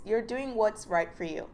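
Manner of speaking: ordinary talk, nothing marked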